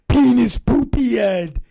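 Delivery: put-on high-pitched naughty child voice; gleeful little kid. Dad imitates his son saying rude words, high gleeful voice. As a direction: mimic a kid delighted by a rude word.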